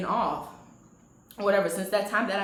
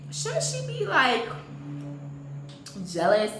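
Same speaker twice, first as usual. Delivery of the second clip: hammed-up offence, pitched way up; offended; slower than usual. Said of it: "I was kinda offended".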